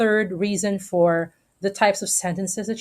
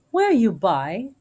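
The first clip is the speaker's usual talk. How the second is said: "Were" marked, "you by" evenly paced, slowed; iambic beat; 2 semitones higher, slower than usual. Shown as a demonstration. Teacher showing the line is iambic, slow rhythmic read. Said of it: "is iambic in nature".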